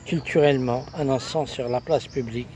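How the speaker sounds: measured poetic recitation in short, paused phrases; poem recital. Acted. Poet reciting the announced recital on love and woman, declaimed poem. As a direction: recite it line by line, lifting the openings.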